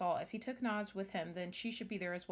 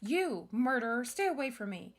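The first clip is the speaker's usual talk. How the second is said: accusing cry; 3 semitones higher, 6 dB louder than usual. Acted. Girl waking beside her father's killer, loud and afraid. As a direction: spit the word murderer at him.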